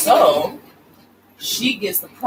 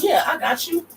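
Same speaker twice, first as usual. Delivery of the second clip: dude's quick yes; 12 semitones higher than usual. Retold or imitated. Dude agreeing to buy necklace.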